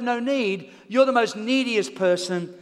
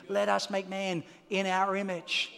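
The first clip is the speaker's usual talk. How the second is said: softer, lower reading of the verse; quiet scripture; 4 semitones lower, 5 dB quieter, slower than usual. Real, not acted. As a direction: say it gently, reflective. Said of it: "quiet restated scripture".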